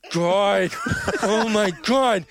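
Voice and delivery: put-on slow, high, breathless kid awe rising; starstruck Ralphie voice. Gamer fawning over Valve devs in a goofy kid voice. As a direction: gasp it out like a dazzled kid.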